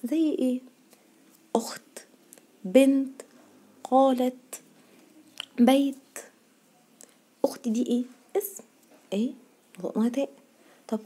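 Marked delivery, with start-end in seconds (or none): 1.6-6.0 each of "أخت، بنت، قالت، بيت" ending on a crisp T; final taa pronounced. Shown as a demonstration. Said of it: "برضو بنطقها تاء".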